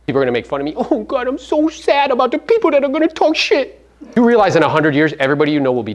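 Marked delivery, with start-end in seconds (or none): 0.8-3.8 high, whining mock lament; mock whiny worrier. Mocking an agent afraid of critics, high whining voice. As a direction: parody someone scared of judgment. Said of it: "I'm too cool to wear glasses".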